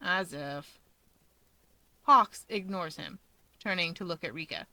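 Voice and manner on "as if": snorting dismissal. A narrator's reading. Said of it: "Toya snorts".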